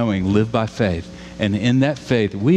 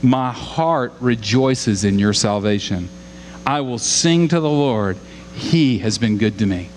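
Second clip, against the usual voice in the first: slow trusting read. Retold or imitated. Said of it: "listen to this".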